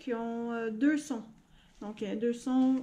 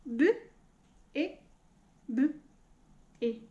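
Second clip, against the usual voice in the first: sounds split one at a time; robot voice. Shown as a demonstration. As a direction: chop bébé into robot sounds. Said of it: "on le dit en robot". (voix de robot, sons découpés)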